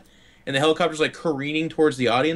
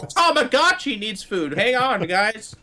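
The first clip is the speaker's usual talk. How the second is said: higher, slow, drawn-out mocking voice; mock phone-obsessed player; 7 semitones higher, slower than usual. Teasing the player who left for phone games, mocking. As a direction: stretch it out, teasing the absent friend.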